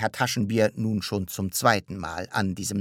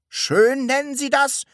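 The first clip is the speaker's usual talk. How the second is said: high, loud, incredulous question; indignant cry; 8 dB louder than usual. A narrator's reading. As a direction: call it out, appalled at the word. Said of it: "rief Herr Taschenbier". (empört gerufen)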